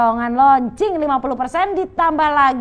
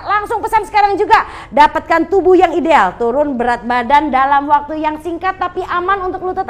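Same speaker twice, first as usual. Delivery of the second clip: louder, higher closing pitch; infomercial; 3 semitones higher, 3 dB louder than usual. Acted. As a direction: push the viewer to order now. Closing sales pitch to viewers.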